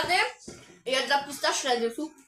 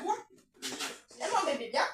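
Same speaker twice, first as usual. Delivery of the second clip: soft coaxing to the cat; 4 dB quieter than usual. Real, not acted. Talking to her cat.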